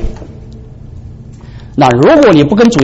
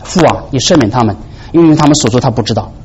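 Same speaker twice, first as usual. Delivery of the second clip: soft forgiving prayer; 5 semitones lower, 3 dB quieter than usual. Retold or imitated. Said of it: "说：".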